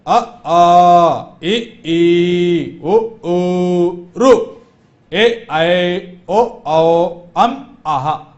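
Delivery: each vowel said loud and distinct; clear, loud recital of अ, आ, ए, ई; loud correct vowels. Shown as a demonstration. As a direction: model the correct version for the class with full voice. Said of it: "इस प्रकार उच्चारण करना चाहिए".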